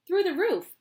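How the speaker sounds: high loud triumphant; gleeful. Acted. Wonka answers Grandpa Joe, gleeful loud. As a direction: announce it with glee.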